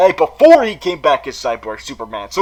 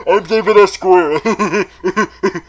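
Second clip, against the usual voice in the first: light mock self-announcement as David S. Goyer; David S. Goyer impression; 2 semitones higher, much slower than usual. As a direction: say the name like a proud villain, barely altered. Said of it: "that was my impression of David S. Goyer".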